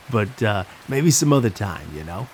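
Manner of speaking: put-on a clown's New York accent, brushing the boy off; jokey New York clown put-down. Clown fobbing off the birthday boy, in a New York accent. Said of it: "in his thick New York accent".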